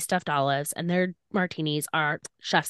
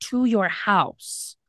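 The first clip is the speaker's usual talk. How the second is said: higher, emphatic protest; retold exasperation; 4 semitones higher, 3 dB louder than usual. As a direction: argue the obvious, slowing down at the end. Retells her exasperated argument with Charlie.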